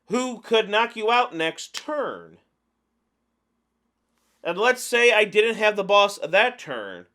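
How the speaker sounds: emphatic ranting, leaning hard on key words; exasperated rant. Real, not acted. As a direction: rant in disbelief at bad play. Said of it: "Sorry that I'm ranting".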